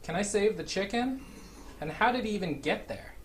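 high, loud, amazed; can't believe it, rising alarm; excited disbelief. Real, not acted. Dad alarmed as zombie rides his chicken.

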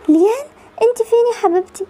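crying while calling her daughter; tearful mother. Acted. Mother crying over sick daughter.

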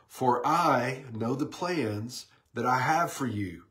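slow, deliberate reading of the verse; scripture reading. Acted. Pastor reading Jeremiah to his online group, slow and deliberate. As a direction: read it out like a promise, unhurried. Reads scripture aloud slowly.

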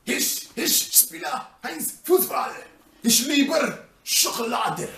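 hammed-up German accent, stop-start. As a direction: bite out German in a put-on accent.

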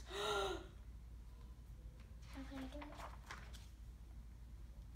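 hushed breathy gasp, held in suspense; acted gasp. Forest watches mouse enter the mouth, quiet gasp. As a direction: draw breath softly in shock.

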